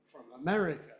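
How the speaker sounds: "from America" with one stress, in "America". Shown as a demonstration. Teacher giving a content-word example, single stress. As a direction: keep "from" weak, stress only "America". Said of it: "just one stress".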